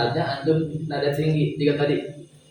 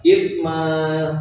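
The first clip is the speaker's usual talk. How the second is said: slow, smiling; much slower than usual. Shown as a demonstration. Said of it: "Jangan lupa senyum".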